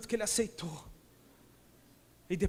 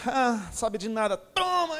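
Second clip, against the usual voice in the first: playful triumphant shout; 4 semitones higher, 5 dB louder, slower than usual. Acted. God voiced, throwing love.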